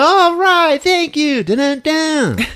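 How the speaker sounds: high, loud hammed-up acceptance, then slow dun dun dun; mock nervous family. Recapping the horror film, hammed-up nervous family. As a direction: ham up the spooky dun dun dun.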